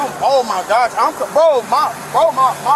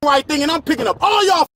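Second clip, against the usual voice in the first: angry yelling; 3 semitones higher than usual. Real, not acted. Yelling at officers after arrest.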